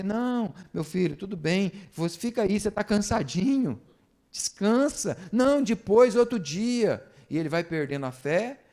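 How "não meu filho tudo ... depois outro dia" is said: higher-pitched parody of coddling; mock indulgent parent. Parent excusing a tired child from church, mock coddling. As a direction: let the child off, exaggeratedly.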